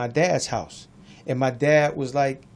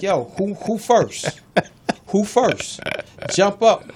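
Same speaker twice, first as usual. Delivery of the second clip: dad's challenge, pitched up and pushed; mock standoff, daring them to step up; imitating angry dad; 4 semitones higher, much slower than usual. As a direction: tough father daring his sons to jump up. Dad with gun confronting sons.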